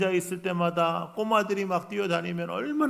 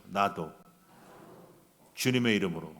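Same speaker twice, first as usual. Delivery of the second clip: call and repeat; 9 semitones lower, 4 dB quieter than usual. Shown as a demonstration. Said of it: "따라하십시오".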